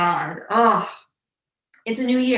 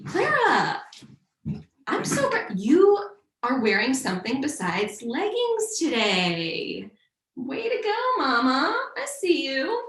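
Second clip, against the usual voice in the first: cheerleader praise; 4 semitones higher than usual. Acted. Cheering herself on.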